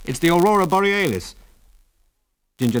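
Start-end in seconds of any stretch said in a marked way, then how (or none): 0.1-1.4 laugh, then answer pitched up; amused, with a short laugh leading in. A narrator's reading. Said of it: "Biggles laughed".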